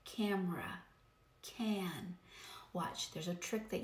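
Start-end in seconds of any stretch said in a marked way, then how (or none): 0.0-0.8 camera with a nasalized first A, as before M; whiny short A in camera; whiny nasal A. Shown as a demonstration. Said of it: "it gets whiny if there's". 1.4-2.2 can with a nasalized A, as before N; whiny short A in can; whiny nasal A. Shown as a demonstration. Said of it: "it gets whiny if there's".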